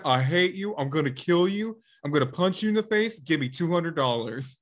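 lightly voiced TV host imitation; mock threats, retold in a put-on host voice; Doctor Phil. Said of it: "He's like".

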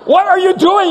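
high, loud outraged brother; hammed-up sibling outrage; exasperated yell. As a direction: yell it in mock disbelief. Acted bedtime quarrel between brothers.

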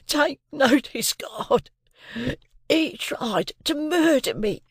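high, slow, gasping plea; breathless plea. A narrator's reading. Beaten convict begging the soldiers, high breathless plea. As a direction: gasp it out, out of breath. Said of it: "could not so much as get his breath".

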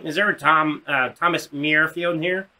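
hesitant counselor, lightly voiced puppet frog; a hint of a froggy impression; Kermit the Frog. Counselor looking for a student, lightly froggy voice. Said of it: "This guy sounded like Kermit the Frog".

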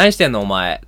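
dropping tone. Retold or imitated. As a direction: start sharp, drop low on お前. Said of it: "声のトーン下がって".

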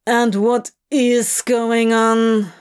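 a touch of sour, slowed down. Acted. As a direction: ask it sourly, a little slowly. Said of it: "rather sourly".

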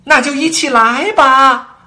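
high, loud, slow bellow; roaring. A narrator's reading. Queen roaring at Alice to join the game, loud. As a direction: roar the invitation like an order. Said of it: "王后咆哮道".

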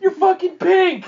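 slow, high mock wail through laughter; hysterical cry. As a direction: wail it in hammed-up shock.

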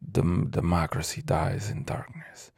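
"democracy dies in darkness" breathed as a whisper, mocking the slogan; mock the newspaper slogan under your breath. Real, not acted. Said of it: "what the fuck type of shit talking about".

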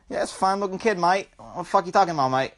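lightly put-on Aussie accent; casual mock Australian. Podcaster imagines the kid as an Australian talking, light Australian accent. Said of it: "but in like, Australian".

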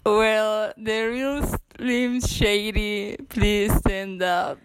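slow, drawn-out rap hook voice; a hint of a famous rapper, dragged slow; rapper impression. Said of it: "No sé cómo dicen eso".

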